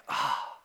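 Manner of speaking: soft, deflated sigh; acted-out downcast exhale. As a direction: sigh quietly as if feeling down. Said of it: "just being downcast and just like".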